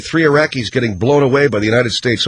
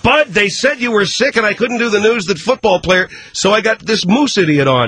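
higher-pitched excuse; defensive; 5 semitones higher than usual. Acted. Host explains himself to upset sidekick, defensive. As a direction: protest your innocence.

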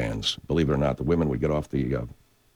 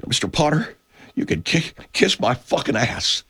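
higher, drawling defiance, slow at the end; Jimmy Stewart; 10 semitones higher than usual. Retold or imitated. George Bailey telling off Mister Potter, higher and slow. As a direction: tell off the villain in a high, slow drawl. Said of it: "I'm Jimmy Stewart".

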